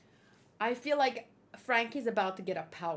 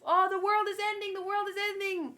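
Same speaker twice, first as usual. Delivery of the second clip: mock alarm; 6 semitones higher, faster than usual. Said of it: "The boy who cried wolf".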